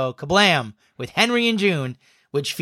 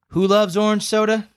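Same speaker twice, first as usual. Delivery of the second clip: Kel quote high sing-song; 8 semitones higher than usual. Retold or imitated. Quoting the orange soda bit.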